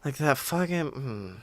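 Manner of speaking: soft, low frustrated swearing; frustrated muttering. Real, not acted. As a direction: curse quietly to yourself, lost the word. Forgets a name mid-read.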